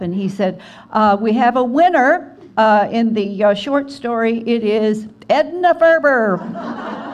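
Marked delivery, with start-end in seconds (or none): 0.9-4.4 loud, halting award announcement; announcing a winner. Retold or imitated. Barnaby announcing the short story winner, loud and halting. 4.5-7.1 slow, loud reveal breaking into laughter; announcing through laughter. Retold or imitated. Barnaby reveals the winner, slow and laughing.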